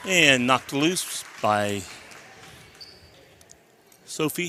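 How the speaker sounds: winded from climbing steps; out of breath. Real, not acted. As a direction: talk while still catching breath. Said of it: "You're winded, Joe".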